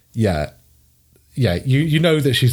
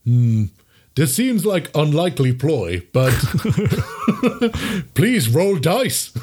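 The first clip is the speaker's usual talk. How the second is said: laughing troll; 4 semitones higher than usual. Acted. Troll doubts the ploy.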